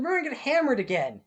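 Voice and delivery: high, loud cry of dread; panicked wail. Acted. Acted panic at coming punishment.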